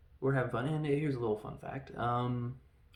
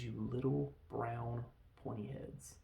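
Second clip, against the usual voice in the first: deliberate quote; 6 dB quieter than usual. Retold or imitated. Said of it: "He says".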